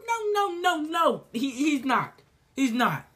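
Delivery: usual speaking voice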